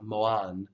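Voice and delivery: "moan" split toward mo-an; wrong pronunciation. Shown as a demonstration. Teacher warns learners what to avoid, mispronounced moan. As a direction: say "moan" with an unrounded second vowel, mo-ahn. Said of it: "you don't wanna say it like".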